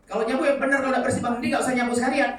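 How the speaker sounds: put-on loud, high scolding of a child; shouted, high-pitched mock rebuke; angry scolding mother. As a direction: snap at the kid like an impatient mum.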